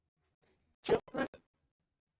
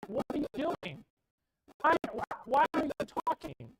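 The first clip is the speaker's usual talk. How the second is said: put-on loud, high, exasperated questions at a child; exasperated parent; 6 semitones higher, 4 dB louder than usual. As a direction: scold the kids, fed up. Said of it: "We get so mad at our kids, like".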